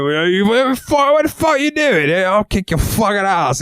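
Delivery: a tiny furious goblin-like threat; squeaky angry character. Shown as a demonstration. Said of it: "I've had characters that talk like this".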